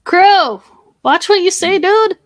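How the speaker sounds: high, loud reprimand; loud warning. Real, not acted. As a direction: call him out sharply over his wording. Co-host rebukes Crow's wording.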